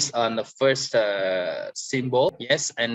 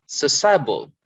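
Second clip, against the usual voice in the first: "sociable" with SO pushed up; stress on first syllable; 3 semitones higher than usual. Shown as a demonstration. Teacher reading out the first column, first-syllable stress on "sociable". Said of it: "so we stress on the first".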